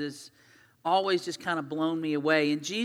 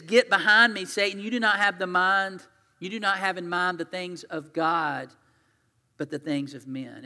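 louder, commanding rebuke; stern rebuke; 4 dB louder than usual. Retold or imitated. Jesus rebuking Peter, stern and loud. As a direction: cut him off firmly.

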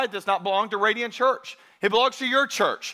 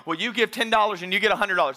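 mock TV preacher; faster than usual. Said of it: "heard the preacher on T V go".

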